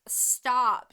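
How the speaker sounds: loud sharp command; yelled stop. Retold or imitated. Saris yelling at the angry girl to stop, loud. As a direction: cut them off hard. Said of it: "She, like, yells".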